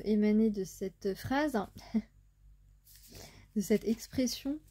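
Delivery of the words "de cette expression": nervous laugh. Real, not acted. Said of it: "c'est un rire complètement nerveux".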